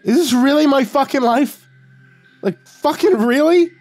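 very high, loud incredulous outburst; hysterical wheeze. A narrator's reading. Narrator laughing at his own life, hysterical. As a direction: squeal it in hysterical disbelief. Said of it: "I clapped my hands over his eyes and wheezed".

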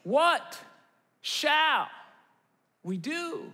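one word at a time, trailing off helplessly; mock lament. Viewer watching the news about the country, drawn-out dismay.

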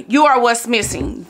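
light preacher-style quote of the sermon line; imitating the pastor. Retelling Pastor Torrey's sermon line, lightly preached. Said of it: "That's what he said".

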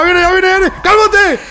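panicked yell at the charging monster; alarmed shout. Real, not acted. Monster rushes straight at him.

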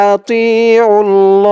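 আতিউল ল drawn out very slowly; slow careful আতিউল ল; slow spelled recitation. Shown as a demonstration. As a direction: stretch আতিউল ল syllable by syllable. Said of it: "খারা জবর এক আলিফ টান".

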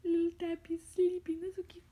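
excited whisper. Real, not acted. Cooing over sleeping pet.

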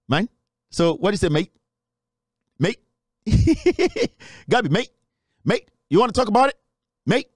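teasing put-on British "mate"; mock British accent. Host taunts Gabby to talk, mock British accent. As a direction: goad him in a playful fake British accent.

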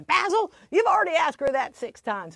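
mock mad wife. Wife exasperated with her forgetful husband, mildly mad imitation. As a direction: scold him quickly, mildly cross, imitating his wife. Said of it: "she'd get real mad at him".

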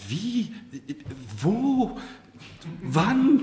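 high, rising one-word questions; bewildered. A narrator's reading. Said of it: "fragte die Marquise verwirrt".

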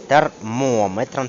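ТЕРМОМЕТР with the beat on МО; stress on second syllable. Shown as a demonstration. Teacher showing the exception for devices, stress on MO. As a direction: punch МО in ТЕРМОМЕТР. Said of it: "по-іншому це буде".

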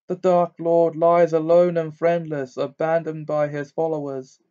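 loud, high prophetic voice; harsh trance voice. Acted. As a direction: intone it like a seer possessed. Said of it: "in the same harsh voice, quite unlike her own".

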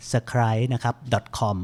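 scribe drawn out very slowly as sa-kh-rai; slow, unsure brand name read; careful pronunciation. Shown as a demonstration. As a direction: sound out scribe syllable by syllable. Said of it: "ถ้าออกเสียงผิดยังไงขออภัยด้วยนะครับ".

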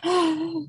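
high gasp of excitement; excited gasp. Acted. Host building up May the fourth, excited gasp. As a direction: draw in a big, high gasp.

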